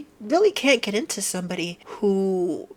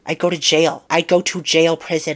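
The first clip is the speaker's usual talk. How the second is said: mock outrage; 7 dB louder than usual. Real, not acted. Exaggerated threat.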